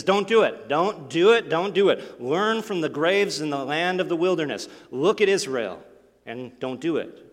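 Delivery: loud, pleading don't do it repeated; urgent warning. Acted. Preacher voicing Paul, urging the church loudly not to grumble. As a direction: hammer the warning home to the congregation.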